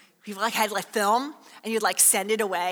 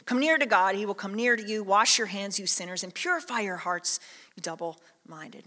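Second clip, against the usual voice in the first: scripture reading; 4 semitones lower than usual. Acted. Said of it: "He says".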